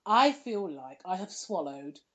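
stuffy voice with a cold; blocked nose. Real, not acted. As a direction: tissue up one nostril. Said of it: "tissue stuffed up each nostril".

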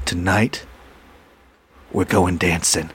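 low, hushed close-mic murmur; ASMR voice. Shown as a demonstration. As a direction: get up on the mic, low and slow. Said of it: "get in there like A S M R".

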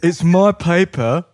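fed up. Acted. Paper's owner fed up with responsibility, indignant. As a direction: stake your claim, exasperated. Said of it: "fed up with the responsibility".

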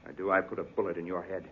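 dropped low and soft, menacing; quiet threat. Acted. Killer threatens Carter with a gun, quiet and cold. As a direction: let the threat sit cold.

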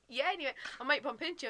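flirty. Retold or imitated. Interviewer flirting back at an actor about a party, flirty. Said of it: "getting all flirty".

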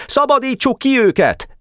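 high-pitched rallying yell; rally the gang with a high yell; howled command. A narrator's reading. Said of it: "üvöltött Ács Feri". (magas hangú, buzdító üvöltés)

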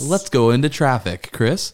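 radio handoff. Pretend. Pretend radio handoff to traffic.

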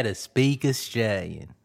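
put-on low, soft Australian accent. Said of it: "Australian accent is pretty cool too".

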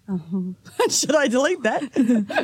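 put-on breaking into laughter mid-accent; can't keep a straight face; laughing through it. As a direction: laughs through the fake Australian line. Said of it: "let's go with Australian".

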